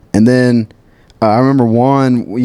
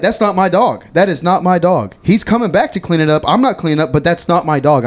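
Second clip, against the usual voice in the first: higher, insistent denial; defensive protest; 6 semitones higher than usual. Retold or imitated. Narrator retelling his reply to the angry customer, higher defensive protest. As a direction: protest your innocence in a raised voice. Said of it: "And I was like".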